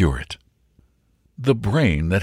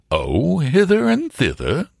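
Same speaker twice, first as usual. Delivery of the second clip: high, drawn-out airy nonchalance; assumed airiness; 9 semitones higher than usual. A narrator's reading. Servant answering the suspicious butler, with put-on airiness. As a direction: toss it off slowly, lilting high. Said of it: "with a well-assumed airiness".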